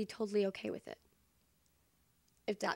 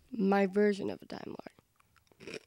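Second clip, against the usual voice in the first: talking while chewing; words round a bite of food; mouth full; slower than usual. Real, not acted. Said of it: "Sorry if I'm chewing and you can hear it".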